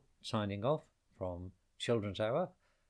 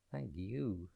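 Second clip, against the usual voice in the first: put-on a softer sighing old tree; the tree answers the bird with a soft sigh; 5 dB quieter than usual. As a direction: breathe the thanks out like an old tree. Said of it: "sighed Tree".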